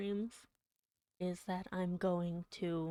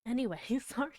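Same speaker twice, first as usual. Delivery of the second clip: laughing apology; 6 semitones higher, 5 dB louder, faster than usual. Real, not acted. Embarrassed laugh after gushing.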